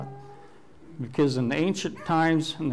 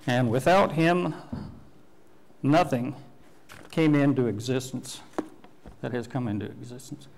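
scripture reading. Acted. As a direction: proclaim the verse to the room. Preacher reads scripture aloud.

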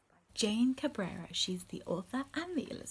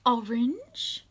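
excited question; 2 semitones higher, 7 dB louder than usual. Acted. Reading questions to children.

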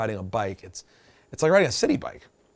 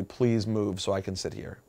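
soft, low polite ask; quiet, peaceable retold plea; peaceful request; 8 semitones lower, 8 dB quieter than usual. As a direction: retell it as a gentle request. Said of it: "just peacefully".

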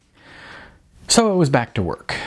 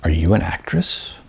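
mock solemn; 4 semitones lower than usual. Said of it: "exaggerated solemnity".

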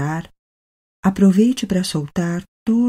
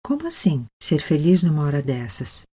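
mildly incredulous. Acted. Guide voicing the listener's doubt about being happy, mildly incredulous. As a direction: gently voice a listener's disbelief.

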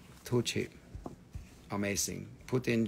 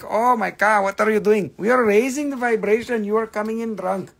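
mock exasperation; 8 semitones higher, 5 dB louder than usual. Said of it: "it's like".

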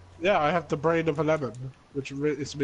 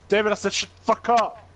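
sudden loud snap, half joking; mock shout; 5 semitones higher, 4 dB louder than usual. Mock shouting at David to shut up. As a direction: bark it at him in play.

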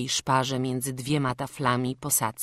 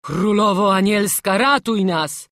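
hoarse cry; 5 semitones higher, 9 dB louder than usual. A narrator's reading. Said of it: "wołał stwórz ochrypłym głosem".

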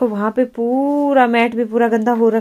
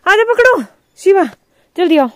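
calling out; 8 semitones higher, 7 dB louder than usual. Real, not acted. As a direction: hurry the little one along from a distance. Calling the child to hurry.

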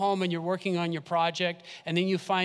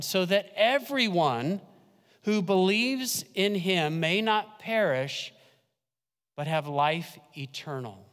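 scripture recitation. Acted. Reciting John 3:16.

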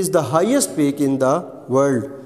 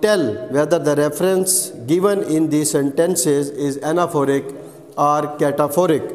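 slow dictation; much slower than usual. Shown as a demonstration. Teacher reads the exercise instruction to students as a very slow dictation. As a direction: read it out very slowly, word by word.

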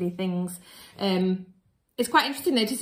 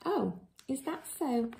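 playful aside; 4 semitones higher, 5 dB quieter than usual. Pretend. Reader flattered aside.

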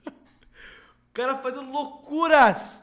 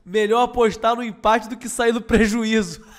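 laughing; 4 dB louder than usual. Retold or imitated. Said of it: "o chimpanzé de motoquinha falou".

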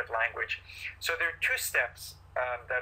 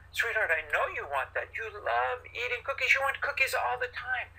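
gentle mature acknowledgment; 9 semitones higher than usual. Shown as a demonstration. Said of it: "you're gonna use mature language like".

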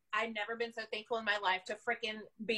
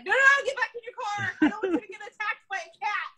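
high, loud retold warning; urgent warning; 8 semitones higher, 7 dB louder than usual. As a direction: call out urgently to send them back. Warning people back into car.

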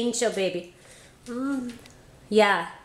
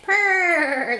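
long rolled cat purr, higher pitched; playful purr; 8 semitones higher, 3 dB louder than usual. Pretend. Adult playing kitty for baby girl, playful purr.

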